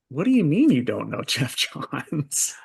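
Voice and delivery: taken aback, voice jumping up; real surprise. Real, not acted. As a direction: ask it in amused disbelief. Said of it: "It just kinda surprises me".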